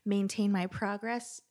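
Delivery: cartoon character voice. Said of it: "Sound like a cartoon character".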